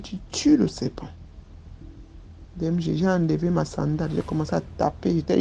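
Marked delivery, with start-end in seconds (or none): 0.0-1.1 voiceless, hushed command; whispered order. Retold or imitated. The nanny whispering an order to the child. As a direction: hiss the order under your breath. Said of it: "elle me dit".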